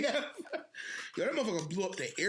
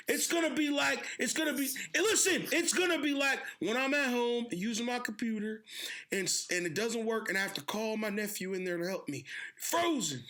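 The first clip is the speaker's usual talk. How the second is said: higher, rambling old-man impression; Biden; 4 semitones higher than usual. Old president explaining frozen with his computer, mock grandpa. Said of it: "this nigga Biden was like".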